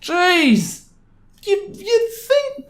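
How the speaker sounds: high, disbelieving exclamation; stunned jeez; exasperated. Real, not acted. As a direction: react like you can't believe it. Reacts to the angry note.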